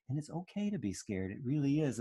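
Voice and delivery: soft, tender reassurance; comforting mother. Retold or imitated. Mother holding her scared baby, softly reassuring. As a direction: gently tell the child fear is fine.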